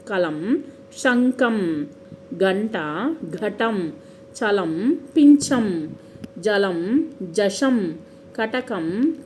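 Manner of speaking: each word from కలం to పలం said separately, with pauses; pronunciation model. Shown as a demonstration. Teacher showing how words are pronounced, కలం and శంఖం set carefully apart. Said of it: "ఎలా పలుకుతాం".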